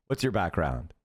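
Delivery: низким голосом, будто ведущий подкаста; low, deadpan interviewer question; mock interview question.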